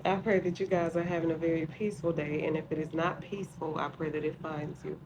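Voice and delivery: muffled behind a face mask; through a face mask. Real, not acted. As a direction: talk through a sheet mask. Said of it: "Don't mind the mask".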